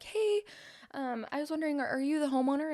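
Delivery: high, bright salesgirl greeting; chirpy door pitch. Retold or imitated. Door-to-door saleswoman greeting a homeowner, high and chirpy.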